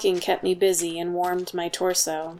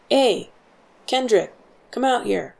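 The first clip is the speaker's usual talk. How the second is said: higher, louder call to the tower; 5 semitones higher, 5 dB louder than usual. A narrator's reading. Guard summoning the younger soldier, loud call. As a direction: call a comrade outside. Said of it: "called out".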